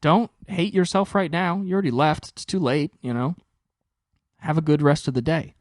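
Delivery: imitating girlfriend comforting. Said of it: "she's given all the good advice of like".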